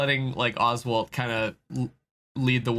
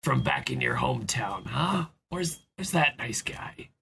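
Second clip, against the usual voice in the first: trying to be positive. Acted. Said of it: "trying to be positive".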